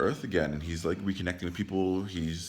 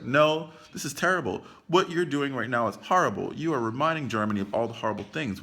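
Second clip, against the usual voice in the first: louder, firm imitated protest; retold indignant objection; 4 semitones higher, 3 dB louder than usual. The one person objecting to Hitler, indignant.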